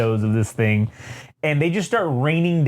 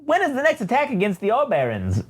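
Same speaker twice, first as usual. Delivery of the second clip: high prissy droid voice, pitched way up; Triple Zero voice; 7 semitones higher than usual. Retold or imitated. Retelling the Star Wars comic, voicing the droid Triple Zero. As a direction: play the polite murderous protocol droid. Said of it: "he says".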